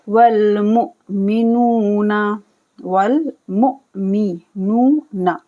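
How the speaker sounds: मुमिनूना with the नू held long; slow Quranic recitation; drawn-out nu. Shown as a demonstration. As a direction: stretch नू in मुमिनूना. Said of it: "नू को खींचेंगे".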